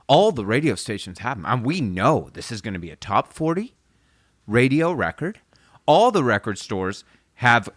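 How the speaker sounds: eager, punchy list, lightly imitated; pumped producer. Retelling the producer boasting about promo and orders, pumped. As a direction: reel off good news like a hyped record man. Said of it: "he's so pumped".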